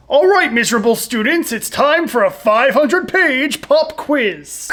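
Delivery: lightly voiced mean British teacher; mock a stern teacher announcing bad news; hint of a stern schoolmaster impression; Mister Rolliworth. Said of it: "That's exactly what he sounds like".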